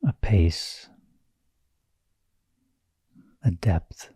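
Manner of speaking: calm, unhurried meditation guiding with long pauses; measured meditation-teacher delivery, phrase by phrase; guided meditation. Real, not acted. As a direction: gently lead them inward, leaving space between phrases.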